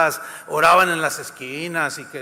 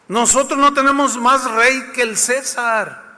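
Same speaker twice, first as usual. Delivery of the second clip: chief priests; 6 semitones higher, 4 dB louder than usual. Acted. Preacher repeating priests' words.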